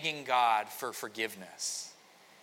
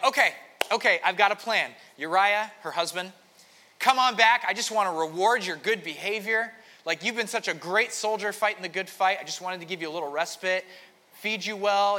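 panicky scheming king; 5 semitones higher, 5 dB louder than usual. Retold or imitated.

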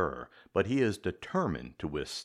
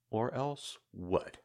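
steely; 4 semitones higher, slower than usual. Acted. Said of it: "Maxie's steely response".

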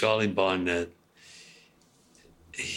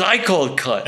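imitating Don Rickles; 8 semitones higher, 6 dB louder than usual. Don Rickles claiming the cut.

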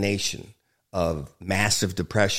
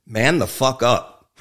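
joking tough-guy answer; 4 dB louder than usual. Pretend. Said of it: "I'm just kidding".

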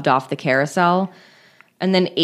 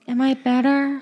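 breathy, higher flirty voice; breathy flirt, pitched up; 7 semitones higher than usual. Retold or imitated. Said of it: "doing a really breathy voice".

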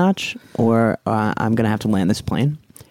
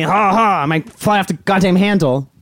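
giddy threat; 8 semitones higher, 3 dB louder than usual. Acted. Attendant half-laughing threat.

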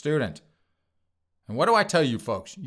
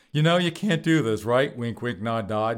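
knowing mock warning; 5 dB louder than usual. White House staff to Kamala's niece, knowing mock warning. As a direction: imitate a warning that doesn't mean it. Voices officials winking at niece.

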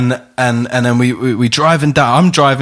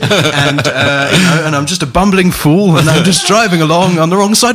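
lightly voiced bumbling posh Englishman, rising higher toward the end; Hugh Grant impression; 3 semitones higher than usual. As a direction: play a flustered, apologetic English fool. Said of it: "I was Hugh Grant".

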